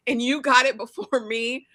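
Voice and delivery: mock-whining at Daisy; mock whiny rival. Jealous girl whining at Daisy, high and put-on. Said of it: "When she said".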